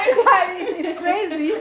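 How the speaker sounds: giggling through the words; laughing. Real, not acted. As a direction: laugh while you talk. Laughing at herself in skirt.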